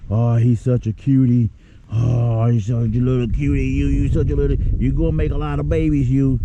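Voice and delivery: put-on high-pitched, gushing baby talk to a fish; gentle cooing. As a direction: coo over it like a tiny baby. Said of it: "powerlifter dude talking like that".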